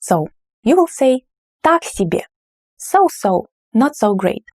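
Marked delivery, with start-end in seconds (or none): 1.6-2.2 Так higher and strong, себе falling; stress on Так. Shown as a demonstration. Teacher modelling stress on Так, unimpressed. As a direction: lift Так above себе. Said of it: "the first word is more emphasized".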